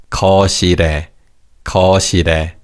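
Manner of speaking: 거실에 with the ㄹ of 실 carried into 에, as geo-si-re; linked final consonant. Shown as a demonstration. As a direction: link 실 into 에 in "거실에", sounding geo-si-re. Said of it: "carries over to the third syllable".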